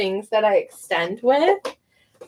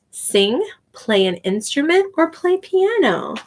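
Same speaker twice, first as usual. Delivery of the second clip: lightly sung-out classroom questions; ESL teacher voice. Shown as a demonstration. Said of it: "I made this one that says".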